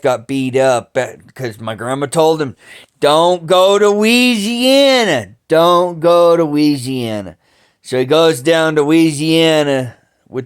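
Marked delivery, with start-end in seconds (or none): 3.0-7.4 higher, louder, pleading warning, slowing at first; urgent warning. Retold or imitated. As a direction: beg him not to go. Grandma warning him not to go.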